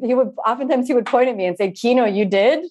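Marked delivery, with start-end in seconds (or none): 1.7-2.7 put-on light Indian accent, raised pitch, questioning lift; a lightly voiced Indian teacher pointing and asking; imitating Indian-accented teacher. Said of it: "in his Indian accent".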